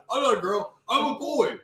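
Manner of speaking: put-on high kid voice, laughing, slowing at the end; a hint of a boy insisting he's a man; imitating a kid. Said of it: "He goes".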